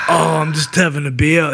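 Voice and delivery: lightly voiced smug podcaster; a hint of a host showing off his beer; mock podcaster. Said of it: "people do this".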